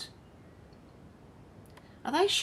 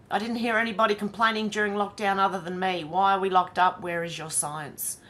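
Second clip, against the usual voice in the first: defiant. Retold or imitated. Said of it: "Defiant, she adds".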